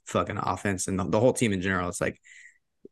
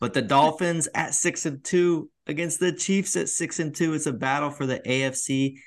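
put-on higher-pitched, playful Irish accent; mock Irish accent, pitched up; 6 semitones higher than usual. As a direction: carry on in a put-on Irish lilt. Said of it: "saying it with an Irish accent".

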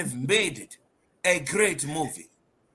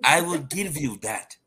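put-on African accent. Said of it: "In my African accent".

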